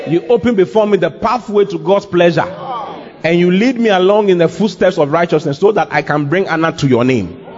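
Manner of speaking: lifted, livelier second-person prayer; talking to a beloved. Shown as a demonstration. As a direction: say it directly to the one you adore. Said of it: "this is what your boyfriend is saying".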